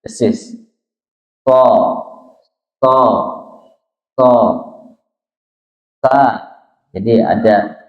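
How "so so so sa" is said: sharp hissing S at the front of "So" and "sa"; hissing letter. Shown as a demonstration. Teacher showing that there is a hiss, hissed "So, sa". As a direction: say "So, so, sa" with a clear hiss. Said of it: "ada desis".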